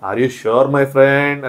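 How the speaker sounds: slow, drawn-out mock host question; host asking. Nagarjuna pressing Nikhil on his decision, a slow drawn-out imitation. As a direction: stretch every word like a TV host testing him. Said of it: "అని అడిగారు".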